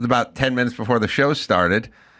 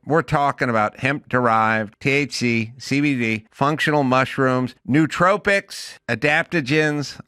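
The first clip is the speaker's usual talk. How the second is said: ad read; slower than usual. Real, not acted. Host reads a sponsor ad.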